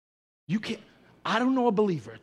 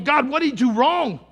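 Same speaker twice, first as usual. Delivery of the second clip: incredulous question; 10 semitones higher, 15 dB louder than usual. Retold or imitated. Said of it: "I'm looking at your life and going".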